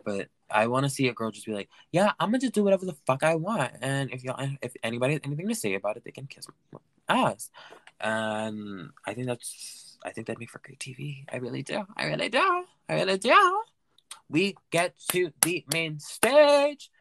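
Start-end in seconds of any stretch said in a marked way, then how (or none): 1.9-7.5 mock defiant queen. 12.0-13.6 higher and louder, insisting; emphatic repeat. Shown as a demonstration. Podcaster insisting to listeners, louder and higher. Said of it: "repeats with rising force".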